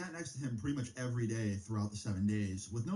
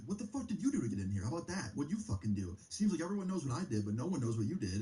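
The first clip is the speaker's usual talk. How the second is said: retold heated comeback, higher but hardly louder; raised voice; 3 semitones higher than usual. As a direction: fire back with a mildly raised, higher-pitched voice. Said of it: "I raised my voice a little bit too loud".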